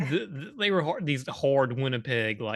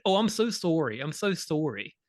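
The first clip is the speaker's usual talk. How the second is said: a lightly mocking, repeated apology; mock Canadian sorry; 4 semitones higher than usual. Teasing the show's characters, a mock apologetic sorry. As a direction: tease the characters' endless sorries. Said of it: "twenty sorries in it".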